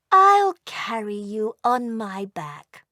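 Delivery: put-on gently offering, a mother reassuring her child; kind mother dragon. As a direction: say it kindly, like a caring mother. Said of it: "said kindly".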